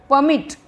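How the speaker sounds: परमिट as "puh-MIT", strong मिट; stress on second syllable. Shown as a demonstration. Teacher correcting the mispronunciation, stress on मिट in परमिट. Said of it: "तो मिट पे ज़्यादा".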